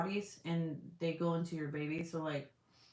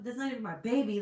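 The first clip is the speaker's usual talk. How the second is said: mock disbelief; 5 semitones higher, 4 dB louder, faster than usual. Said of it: "I was like".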